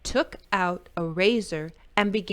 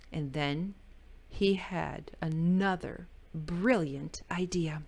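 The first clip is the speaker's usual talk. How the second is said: hushed whisper; 4 semitones lower, 6 dB quieter than usual. A narrator's reading. Narrator teasing the idea, whispered. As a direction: whisper it like a secret.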